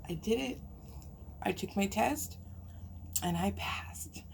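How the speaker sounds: breathy whispered relief; whispering that she finally passed; hushed whisper. Real, not acted. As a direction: whisper it like a secret you can barely believe. Reliving passing her exam.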